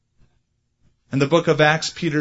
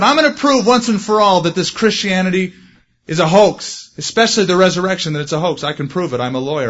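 defiant skeptic; 4 dB louder than usual. Retold or imitated. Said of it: "He said".

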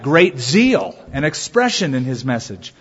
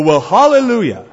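mildly exclaimed, higher-pitched delight; pleased exclamation; 4 semitones higher, 4 dB louder than usual. Retold or imitated. Unbelievers exclaiming when they like something, imitated pleased exclamation. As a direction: imitate someone cheerfully exclaiming approval. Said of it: "unbelievers will say hallelujah if they like something".

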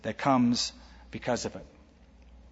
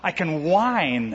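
mock whining complainer. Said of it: "Blessed are the whiners".

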